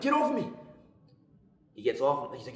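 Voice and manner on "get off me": sudden yell, much higher and louder. Retold or imitated. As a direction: cry out in sharp pain. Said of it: "I yell".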